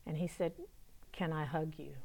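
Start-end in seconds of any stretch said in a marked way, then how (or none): 1.1-1.9 soft, low, tentative ask; quiet request. Retold or imitated. Young man asking his helper for a hug, very quietly. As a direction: ask it gently under your voice.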